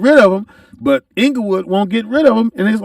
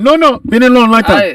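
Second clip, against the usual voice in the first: higher mock-Japanese protest; mock Japanese accent; 3 semitones higher than usual. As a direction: refuse to budge in put-on Japanese English. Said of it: "Japanese, just".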